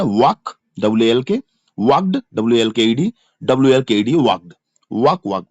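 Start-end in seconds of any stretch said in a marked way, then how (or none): 0.0-0.6 "वॉक" with the L left unsounded; silent L. Shown as a demonstration. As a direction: say "वॉक" as a model, no L. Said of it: "क्या बोलना है". ("वॉक" बोलें, एल silent रखकर)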